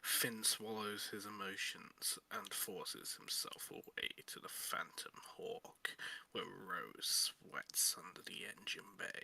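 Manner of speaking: soft, slow, near-whispered storytelling; hushed narration. Acted. Narrator setting a tender scene, softly and slowly. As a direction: draw listeners in quietly.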